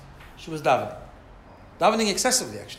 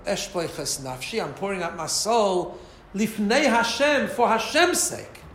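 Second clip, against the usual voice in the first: earnest pouring out; 3 semitones higher, 4 dB louder, much slower than usual. Retold or imitated.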